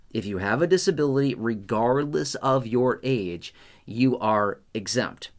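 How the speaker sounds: slow, deliberate emphasis on "regardless of your age"; hammering the point. Real, not acted. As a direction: lean hard on "you are exempt", slowing down. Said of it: "I really wanna hammer this".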